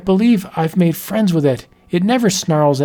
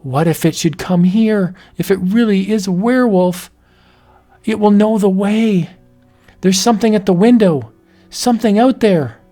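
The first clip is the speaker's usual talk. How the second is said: rising dread; 6 semitones higher than usual. Acted. Wife alone, wolf approaching.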